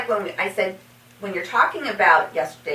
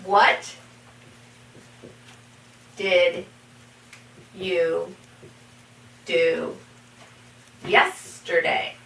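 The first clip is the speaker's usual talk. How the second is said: each word apart, long yesterday; slow word by word; 3 semitones lower, much slower than usual. Shown as a demonstration. Teacher to students, slow model question. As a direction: ask it slowly, one word at a time. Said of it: "For example".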